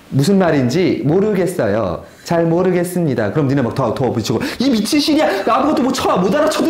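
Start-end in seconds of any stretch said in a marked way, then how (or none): 4.6-6.7 mock angry. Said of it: "막 이제 화를 내죠".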